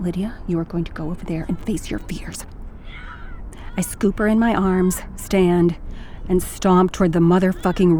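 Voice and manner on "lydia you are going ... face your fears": quiet, seething through the teeth; hushed, barely held-in anger; mother's soft seething threat. Acted. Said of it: "say softly, seething".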